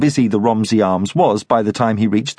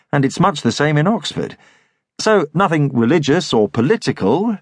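lightly voiced Thomas; 2 semitones higher than usual. Thomas tactfully choosing a book for the soldier, musing. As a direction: think aloud tactfully.

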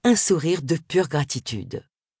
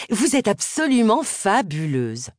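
gushing flattery; 5 semitones higher, slower than usual. Acted. Miss Sims flatters Agatha.

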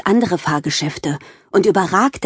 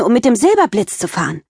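excited; 4 semitones higher, faster than usual. Acted. Girl thrilled about roller coaster.

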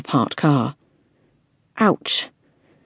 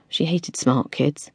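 ordinary delivery

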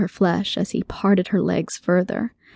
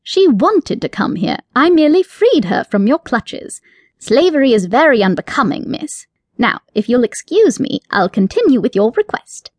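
haughty rabbit, sniffing at her claim; offended rabbit, lifting his nose; indignant; 4 semitones higher, 3 dB louder than usual. Acted. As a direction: scoff at her as beneath him. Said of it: "replied with indignity".

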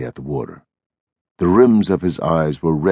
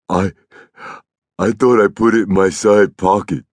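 put-on higher, childlike, hesitant start; sheepish Lennie; 5 semitones higher, 4 dB louder than usual. A narrator's reading. Lennie explaining about his pocket, sheepish. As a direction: explain simply, stumbling in.

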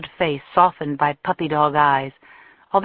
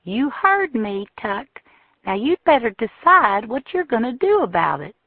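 hard merciless smile; 6 semitones higher than usual. A narrator's reading. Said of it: "a hard, merciless smile".

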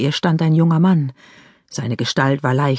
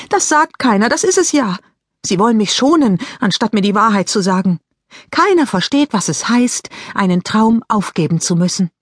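mildly distraught Mary Lou; upset teenage girl; 5 semitones higher than usual. Acted. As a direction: let the frustration spill over. Voices Mary Lou frustrated.

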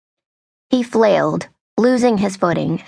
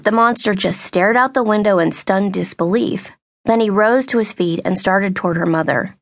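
ordinary delivery, nothing marked

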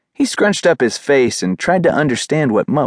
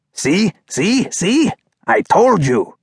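high, eager repeats, then a punched boast; self-satisfied dog character, excited; gloating excitement; 8 semitones higher, slower than usual. A narrator's reading. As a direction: crow that you were right. Poo Poo crowing he was right.

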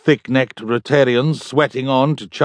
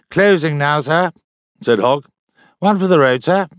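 barman voice; 4 semitones higher than usual. Acted. Barman calls closing time.

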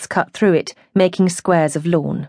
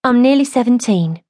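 higher, firm statement of fact; 6 semitones higher than usual. A narrator's reading. Joyce tells the man her age, firmly. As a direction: say it firmly, standing your ground. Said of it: "and said firmly".

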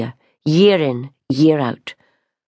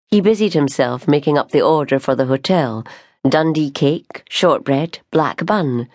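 plain reading voice

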